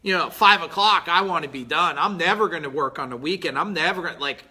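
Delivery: hammed-up reluctant student making excuses; mock excuse-maker. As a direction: play the lazy guy dodging the work. Mimics an unwilling excuse-maker.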